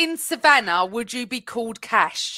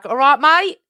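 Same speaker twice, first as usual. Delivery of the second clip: put-on Cockney greeting; East End accent; 3 dB louder than usual. Shown as a demonstration. Co-host showing another accent to friends, East End accent. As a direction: play it as an East End Londoner. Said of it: "I can do an East End one".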